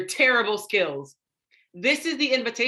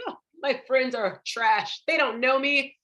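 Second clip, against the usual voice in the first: mock-upset, rising to a loud protest; upset complaint; 5 semitones higher, 3 dB louder than usual. Speaker imitating past self upset at friends, whiny protest. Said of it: "I'd be so upset".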